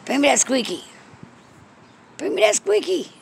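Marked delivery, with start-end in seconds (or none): 2.2-3.1 high coaxing. Real, not acted. Owner luring her cat to bring the squeaky, high coax. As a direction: repeat it much higher, pleading.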